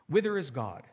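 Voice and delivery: a loud anguished cry; cried out. Retold or imitated. Preacher voicing the madman crying out. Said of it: "he cried".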